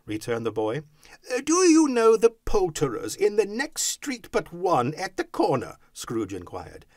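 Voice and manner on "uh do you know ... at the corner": high, loud, eager inquiry; excited raised voice; calling down. A narrator's reading. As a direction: call the question to someone below. Scrooge calls down to boy.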